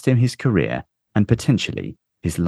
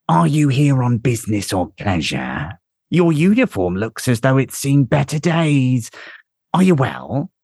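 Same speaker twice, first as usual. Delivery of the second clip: higher, courteous stranger voice; raised voice for a wary visitor; polite traveller voice; 7 semitones higher, 4 dB louder than usual. A narrator's reading.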